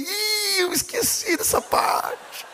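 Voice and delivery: put-on high breathy whisper of a caught-out boy; sheepish kid. Son confessing to his father he forgot about Jesus, high sheepish whisper.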